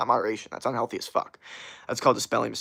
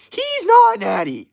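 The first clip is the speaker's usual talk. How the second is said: high, loud, drawn-out mock yell; Greg Doucette impression; 8 dB louder, much slower than usual. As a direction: stretch it out in a piercingly high imitation. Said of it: "It's almost like Greg Doucette".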